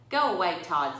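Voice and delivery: put-on girl shouting at a bully to leave; firm telling off. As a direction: send the bully off firmly. Jessica tells bully to leave.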